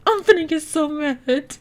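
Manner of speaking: fake-mad, cracking up; laughing mock anger. Real, not acted. Annoyed at intruding sim.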